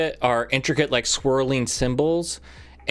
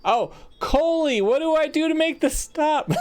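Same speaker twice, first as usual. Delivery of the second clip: calling out; 14 semitones higher than usual. Acted. Woman asking Coley to stop the stone, calling out. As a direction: call the name long and high, wanting help. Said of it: "you have to say her name".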